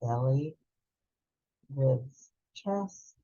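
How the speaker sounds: Belly, ribs, chest, each word alone with a long pause between; slow, spaced count matching the inhale; drawn-out breath cue. Shown as a demonstration. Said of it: "Think to yourself as you go in".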